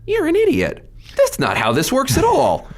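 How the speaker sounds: high, indignant outburst; retold angry retort. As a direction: fire it back as if still fuming. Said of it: "And I was like".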